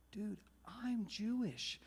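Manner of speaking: hushed confidential admission; imitated whisper. Bar patron confiding in the musician, hushed mock whisper. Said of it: "Why are you whispering?".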